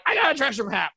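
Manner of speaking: high-pitched mock character voice; comic high squeal of a line; excited girl. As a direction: play the girl blurting out big news. Voicing the girl in the story.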